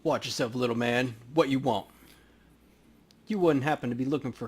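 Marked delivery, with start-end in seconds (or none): 0.0-1.9 lightly voiced street thug; tough gang kid. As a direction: warn off the stranger. Voicing gang kid Paco.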